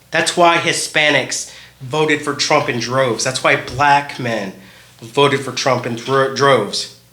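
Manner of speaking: slow, slightly slurred tipsy speech; tipsy slurring. Real, not acted. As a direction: talk like you've had a few drinks. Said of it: "Obviously, I'm slurring my words".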